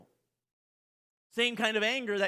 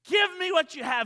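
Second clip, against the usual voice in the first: higher, loud bark; angry demand; 10 semitones higher, 6 dB louder than usual. Acted. Servant shaking the debtor by the throat, loud demand. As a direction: squeeze it out of him.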